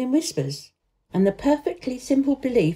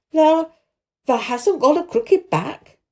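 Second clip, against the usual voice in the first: raised, halting hoarse question; 8 semitones higher, 4 dB louder than usual. A narrator's reading. Stunned old man questioning the boy, hoarse. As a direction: ask hoarsely, stumbling on the first word. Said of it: "he said hoarsely".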